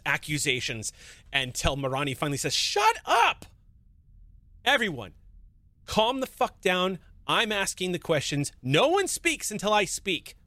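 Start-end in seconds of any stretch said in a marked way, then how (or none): 2.5-10.4 angry shout. Acted. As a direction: bark orders to silence everyone. Mirani yells at everyone to shut up.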